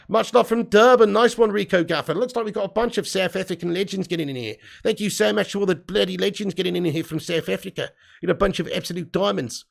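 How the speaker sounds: badly faked South African accent. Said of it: "that was a bad one that time".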